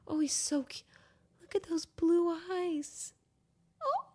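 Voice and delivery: almost cry at his eyes; moved cry. Real, not acted. Gazing at the cat's blue eyes, voice breaking. Overwhelmed by cat.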